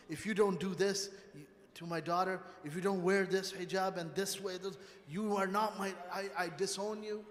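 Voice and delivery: angry parent threat. Retold or imitated. A father threatening to disown his child, in a mock angry voice. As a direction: play the harsh father laying down threats.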